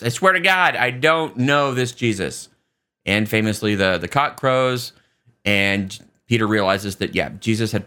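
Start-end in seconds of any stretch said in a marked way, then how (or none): 0.0-2.5 swearing denial. Retold or imitated. Peter swears to a third accuser, mock sworn denial. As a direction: imitate an emphatic denial, slowing down. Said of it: "And Peter swears".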